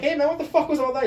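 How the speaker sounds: high, loud retold challenge; mock incredulous confrontation. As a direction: act out demanding an explanation, baffled. Acted confronting opponent afterwards.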